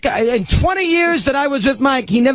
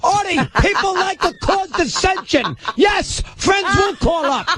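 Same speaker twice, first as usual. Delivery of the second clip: high, shouted protest over the other person; real raised-voice arguing; screaming in argument; 4 semitones higher than usual. Real, not acted. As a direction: shout him down, exasperated. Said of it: "you keep screaming like a crazy person".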